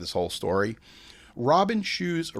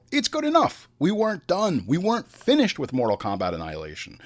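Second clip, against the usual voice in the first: mock dismissive studio; 4 semitones higher than usual. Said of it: "take the movie and go".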